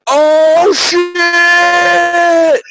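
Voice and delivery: high, loud startled yell of surprise; shocked exclamation. Retold or imitated. Neighbours watching TV shout in shock. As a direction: blurt it out in shock. Neighbours react to monster slap.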